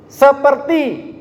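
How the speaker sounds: pointed, stretched "Seperti"; stressed seperti. Shown as a demonstration. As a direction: drag out "Seperti" skeptically. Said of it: "belum tentu dia adalah anak Tuhan".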